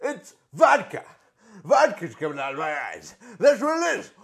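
mock-heartbroken wrestler appeal; Ric Flair impression. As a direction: plead with his daughter, half-hammed hurt. Flair wounded promo to Charlotte.

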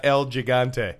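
put-on slow Spanish-accented name; stretched-out Spanish accent. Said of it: "Oh, what an accent".

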